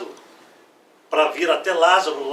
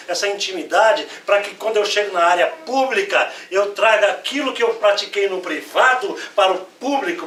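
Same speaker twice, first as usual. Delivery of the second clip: confident prayer. Acted. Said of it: "É isso que ele tá falando assim".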